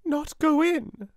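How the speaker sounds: put-on girl exclaiming in shock; shocked exclamation. A narrator's reading. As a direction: recoil in disbelief. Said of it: "exclaimed Sarah".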